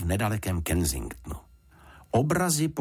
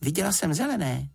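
put-on high girl's voice stressing zelené; zelené said high and firm by a little girl; a girl sure of what she saw; little girl insisting; 10 semitones higher than usual. A narrator's reading. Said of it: "řekla Juditka".

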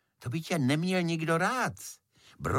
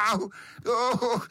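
high yelp of pain; child's cry of pain; 9 semitones higher than usual. A narrator's reading. Beetle burned by flame and smoke, high yelp. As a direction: yelp as smoke stings you. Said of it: "a Brouček počne křičet".

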